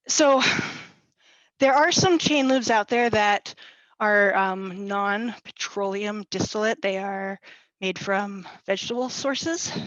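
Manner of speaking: out of breath after running upstairs; breathless, panting between phrases; gasping for air. Real, not acted. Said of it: "Sorry, I'm out of breath".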